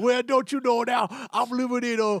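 put-on stock Southern accent. Joking about people asked to do accents, the speaker does a mock southern accent. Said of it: "do a Southern accent?".

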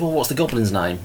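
plain

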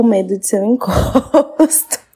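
laughing while speaking, mid-sentence. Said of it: "eu tô rindo".

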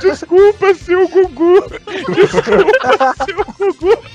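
put-on crying voice. Speaker retells what a man said while eating, imitating someone crying while apologizing. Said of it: "chorando, e falando".

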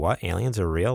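usual speaking voice

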